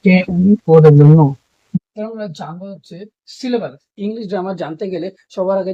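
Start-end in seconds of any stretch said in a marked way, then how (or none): 0.0-1.1 letters spelled slowly one by one; spelling it out. Shown as a demonstration. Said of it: "ভার্বটা হচ্ছে নো".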